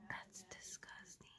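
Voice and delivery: hushed, slow, breathy whisper of disgust. Real, not acted. Telling viewers she is serious, slow disgusted whisper. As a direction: drop to a slow whisper as if still shuddering.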